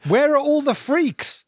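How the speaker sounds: put-on high, slow shout in West African accent; heavy West African accent. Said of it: "in a heavy West African accent".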